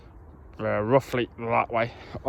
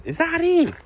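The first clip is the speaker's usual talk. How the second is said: surprised; 5 dB louder than usual. Real, not acted. Surprised at the short time.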